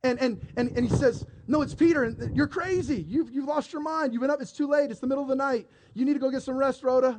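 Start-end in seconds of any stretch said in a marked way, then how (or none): 1.5-2.0 high, insistent mock protest; insistent affirming. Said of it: "she constantly affirmed". 2.0-7.2 higher, mildly exasperated scolding; lightly acted brush-off of wild news; dismissive disbelief. Disciples dismiss Rhoda's news in disbelief.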